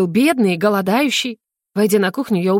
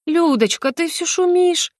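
higher, slow, sugary motherly coo; honeyed mother; 9 semitones higher, slower than usual. Acted. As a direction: sweeten every word to calm her daughter. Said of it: "елейным голосом сказала мама".

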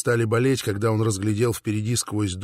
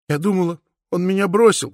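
sobbing; 7 semitones higher than usual. A narrator's reading. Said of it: "всхлипывала Катрина".

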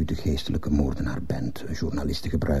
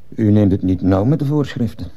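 pointed, raised-voice rebuke; stern reprimand; 4 semitones higher, 5 dB louder than usual. Acted. Principal confronts absent teacher, stern reprimand. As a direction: scold with heavy emphasis.

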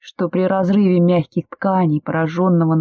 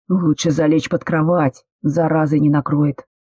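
usual speaking voice

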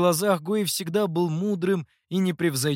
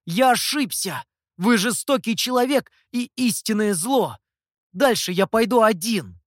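much higher, louder furious retort; angry outburst; 6 semitones higher, 5 dB louder than usual. Acted. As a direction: snap back in rage. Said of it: "разгневался Сяо Ту". (гневно выкрикнул)

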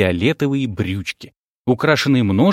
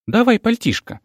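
high, busy fussing; 9 semitones higher than usual. Acted. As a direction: bustle and fuss over him. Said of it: "засуетилась Тася".

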